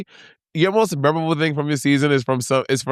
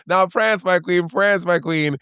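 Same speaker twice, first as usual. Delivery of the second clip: higher mock host voice; higher playful host voice; RuPaul impression; 6 semitones higher, slower than usual. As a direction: announce it like the show host, pitched up. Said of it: "he says".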